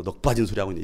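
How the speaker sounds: put-on muted Jeolla-accented put-down; Jeolla dialect. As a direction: scold in Jeolla regional speech. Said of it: "전라도로".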